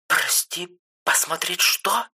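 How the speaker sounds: высоко, с издёвкой, медленно; сестра подтрунивает; насмешливо. A narrator's reading. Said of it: "насмешливо спросила". (насмешливый вопрос)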